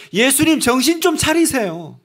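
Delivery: high-pitched rebuke of the master; scolding. Retold or imitated. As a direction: disciple scolding his teacher, pitched high. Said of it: "이렇게 지금 꾸짖고 있는 거예요".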